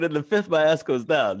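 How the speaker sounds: repeating to be heard. Real, not acted. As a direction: repeat it loudly so they hear it. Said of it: "I said".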